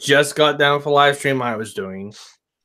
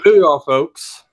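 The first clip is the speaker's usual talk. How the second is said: announcer voice; 3 semitones higher, 6 dB louder, slower than usual. Pretend. Host voice bit.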